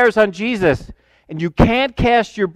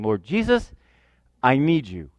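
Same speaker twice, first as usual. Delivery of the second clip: much lower, softer murmured prayer; quiet prayer; 8 semitones lower, 6 dB quieter than usual. Retold or imitated. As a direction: pray under your breath. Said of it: "head down saying".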